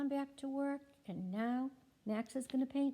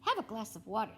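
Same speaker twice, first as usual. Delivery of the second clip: voicing Max; 7 dB louder, faster than usual. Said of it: "says Max".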